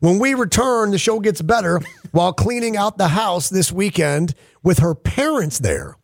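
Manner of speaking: slow, suspenseful show promo; radio tease. Acted. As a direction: tease the cliffhanger, stretching the last phrases. Reads a show tease before the break.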